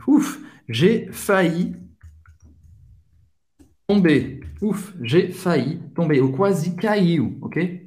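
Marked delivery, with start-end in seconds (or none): 0.1-6.2 puffed "ouf", then a measured confession; relieved. Shown as a demonstration. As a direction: relief after nearly falling. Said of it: "expressar um alívio". (aliviado por quase cair)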